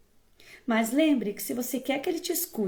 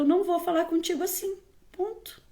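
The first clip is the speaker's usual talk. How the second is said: quick, higher-pitched firm refusal; 5 semitones higher than usual. Pretend. Parent setting a limit for a disrespectful child, firm. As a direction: set the limit briskly, no shouting. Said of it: "Mas tem que ser firme".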